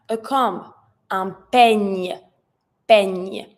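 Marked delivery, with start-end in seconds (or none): 1.1-3.5 peigne ending in an audible ñ; clear ñ sound. Shown as a demonstration. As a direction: let the ñ ring out at the end of peigne. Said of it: "I need to hear the ñ".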